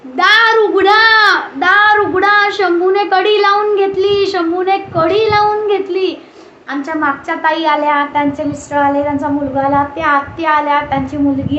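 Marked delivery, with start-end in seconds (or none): 0.0-6.1 mock shout, drawn out and sing-song; retold yell for help. Mother locked in toilet, yelling to neighbours, drawn-out mock shout. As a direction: call out for help like she did from the toilet. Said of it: "बेंबीच्या देठापासून ओरडत होती".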